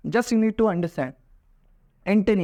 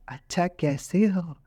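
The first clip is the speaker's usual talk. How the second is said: slow, soft and friendly; a sweet friendly greeting; sweet and gentle; 3 semitones lower, 3 dB quieter, slower than usual. Shown as a demonstration. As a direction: read it like a kind friend asking. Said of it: "तो message एकदम".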